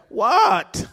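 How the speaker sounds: re-enacting an irritated yell; retold shout. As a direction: shout back down the stairs. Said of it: "I shouted back down".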